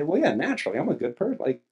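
a lightly voiced smug sinner; mock smug self-praise; arrogant inner voice. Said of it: "before our sinful arrogance starts to say".

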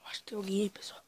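scared whisper. Real, not acted. Scared whisper in dark village.

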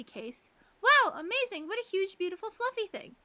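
a hint of an eager doctor; doctor character. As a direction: greet the patient brightly.

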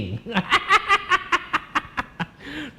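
high staccato cackle; long high giggling cackle; burst of laughter. Real, not acted. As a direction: crack up in a high, rattling laugh. Cracking up at own innuendo.

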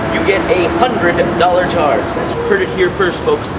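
fast live field reporter; news reporter. Acted. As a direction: rattle it off like a reporter. Reporter persona.

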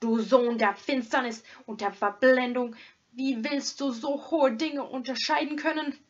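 angry tirade. Acted. Hermit banishing the robber, angry and loud. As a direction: cast him out like Satan. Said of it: "schrie der Eremit zurück".

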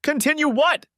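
high, sharp angry hiss. A narrator's reading. Wife confronts her cheerful husband, high angry hiss. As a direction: spit the question back furiously. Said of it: "Dana hissed".

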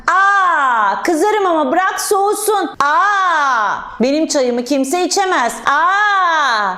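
drawn-out indignant "aa", lightly acted; mock annoyed. Teacher whose tea was taken, mock annoyed. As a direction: scold with mild pretend anger. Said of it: "kızınca ne dedim".

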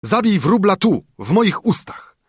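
frantic shout. A narrator's reading. Carter with lips clamped on the sparrow calls to his wife, loudly. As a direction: shout through clenched lips. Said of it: "woła".

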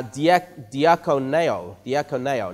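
"diakoneo" drawn out slowly and carefully; careful Greek pronunciation. Shown as a demonstration. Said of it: "see if I can pronounce this right".

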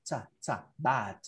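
"cha, cha" as released t bursts, then BAT; T sound demo. Shown as a demonstration. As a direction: isolate the final t, then say "bat". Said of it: "esa T lo tienes que hacer".

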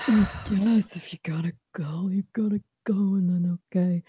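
breathy resigned whisper. Real, not acted. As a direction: whisper it, mock sulking.

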